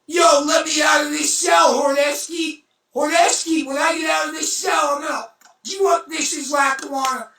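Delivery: hammed-up jailhouse yell, rushed; retold inmate shouting. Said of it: "everybody in the hole is yelling".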